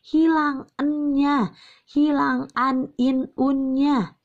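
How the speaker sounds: slow, careful reading with the n left out; dropping the n sound. Shown as a demonstration. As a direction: show how the n disappears, slowly. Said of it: "tidak dibaca nunnya". (contoh pelafalan lambat tanpa bunyi n)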